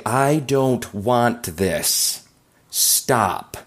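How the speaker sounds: slow, eerie ghostly plea; spooky voice. Acted. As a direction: moan it like a ghost. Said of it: "in a spooky voice".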